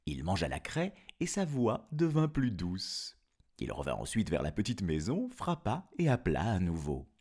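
put-on storyteller reading to children; story narration. Narrator telling of the wolf's trick, story narration. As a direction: tell it as a fairy tale, with lilting phrases.

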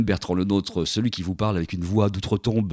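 hoarse, lost voice from a cold; rough voice barely holding up; sepulchral voice. Real, not acted. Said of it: "je manque de voix".

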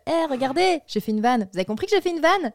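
mock-insistent "look at me" delivery; mocking joke-announcer. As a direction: parody someone insisting on their own joke. Mocks films announcing their jokes.

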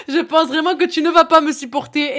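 Toulouse accent, laughing a little; southern French accent, playful. Shown as a demonstration. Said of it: "j'ai sorti l'accent du Sud".

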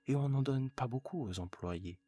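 eager husband pushing the invitation; husband's voice. Acted. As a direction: coax her like a proud, hopeful husband. Husband coaxing his wife.

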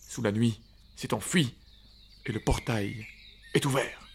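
measured, commanding call to wake; slow and commanding. Acted. Tom calls the sleeping hobbits awake, slow and authoritative. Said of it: "d'une voix lente et autoritaire".

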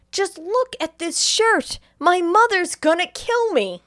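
high-pitched, slow, exasperated complaint; hammed-up villain whine. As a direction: wail it like an overgrown mama's boy. Acted villain whining about shirt.

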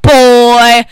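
showbiz host, name belted out loud; grand entrance announcement. Acted. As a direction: build up to a loud announcer boom. Host opens his show.

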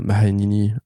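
put-on Mahanini with an Arabic accent. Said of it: "pourquoi je dis ça avec un accent arabe?".

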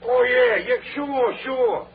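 eager agreement. Acted. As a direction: hastily play along. Crook hastily agreeing.

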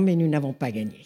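sober correction, settling down at the end; cool, not unkind. Retold or imitated. Simone corrects her enthusiastic young friend, coolly and without malice. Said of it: "d'un air très froid, mais pas méchant du tout".

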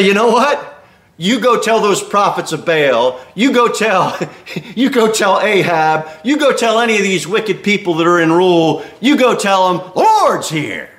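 confident and defiant, breaking into laughter; bold defiance. Retold or imitated. Preacher urging believers to tell Ahab, bold and laughing. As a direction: dare them to hear it. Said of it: "Take Elijah's attitude".

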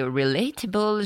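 relatable said the English way, as ree-lay-table; jokey English pronunciation of relatable; English accent. Shown as a demonstration. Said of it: "j'en ai marre avec mon accent anglais improbable".

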